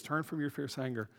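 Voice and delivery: quiet imploring prayer; pleading. Retold or imitated. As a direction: beg gently, not reading it out. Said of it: "He was pleading with God".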